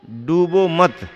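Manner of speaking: डूबो मत as one phrase, then a clear stop after मत; pause after मत. Shown as a demonstration. Preacher showing listeners where the comma falls, pause after मत. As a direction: halt firmly after मत, as at a comma. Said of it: "comma का तो अंतर है".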